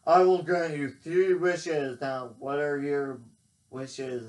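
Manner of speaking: lightly voiced grand genie; a hint of a booming genie. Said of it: "and he goes".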